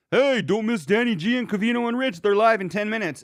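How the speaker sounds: high, excited show plug; hyped promo. Acted. Plugging the show live in ten minutes, hyped promo. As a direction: sell it like a mock announcer. Reading out own promo tweet aloud.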